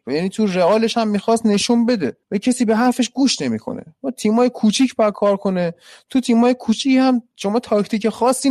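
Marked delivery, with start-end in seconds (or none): none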